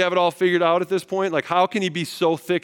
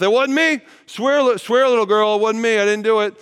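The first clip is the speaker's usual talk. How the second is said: panicked denial; 7 semitones higher, 7 dB louder than usual. Acted. Peter denies Jesus, swearing.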